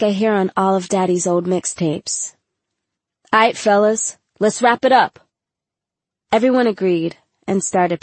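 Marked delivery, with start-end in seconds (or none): 3.3-5.2 dad addressing the band; calling out. A narrator's reading. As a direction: wrap up the rehearsal across the room. Dad calls rehearsal to an end.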